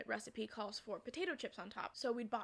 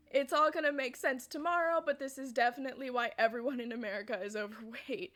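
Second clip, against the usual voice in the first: amused exclamation; 6 dB louder than usual. Retold or imitated. Her joking exclamation amid laughter.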